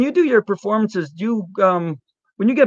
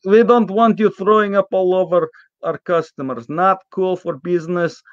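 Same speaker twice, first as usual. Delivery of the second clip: lightly put-on Polish restaurant owner; mock Polish accent. Restaurant owner scolds the sick guest, mild Polish accent. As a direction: play the gruff owner with a hint of Polish accent. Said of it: "You sound just like Olaf".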